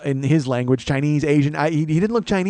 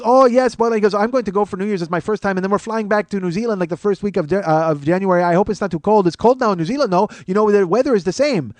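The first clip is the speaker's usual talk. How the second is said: higher-pitched nonstop small talk; rambling seatmate; 5 semitones higher, 4 dB louder than usual. Retold or imitated. Passenger chattering while comedian unfolds headphones, rambling seatmate. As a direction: ramble on cheerfully to a silent neighbor.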